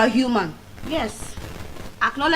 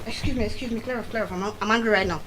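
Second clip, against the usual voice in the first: put-on telling kids off; 6 dB quieter, faster than usual. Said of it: "I'll just tell my children".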